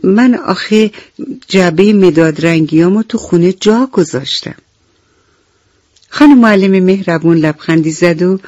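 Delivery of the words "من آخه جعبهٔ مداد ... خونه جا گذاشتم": higher, hesitant little monkey voice; ashamed young monkey, lightly voiced; shy little monkey. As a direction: stammer it out like an embarrassed child. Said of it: "میمون با خجالت گفت".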